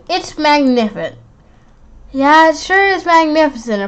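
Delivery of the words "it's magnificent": lightly voiced pompous teacher; proud tour guide teacher.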